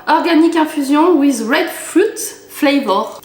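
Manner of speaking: French speaker's careful attempt at an English accent; best English accent. Shown as a demonstration. Vlogger reading a drink label, showy English accent. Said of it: "Avec mon meilleur accent anglais".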